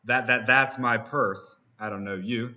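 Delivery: slow chopped stutter on that, that, that's; stuttered sample chop, slowed down; stutter effect. Shown as a demonstration. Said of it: "And I'm gonna go".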